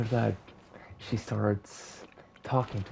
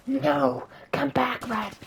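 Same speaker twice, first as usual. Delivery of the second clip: high, loud call after the rat; pleading call; 4 dB louder, slower than usual. Acted. Cinderella calls after the fleeing rat, high and loud. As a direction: cry out for it to come back. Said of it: "And she's like".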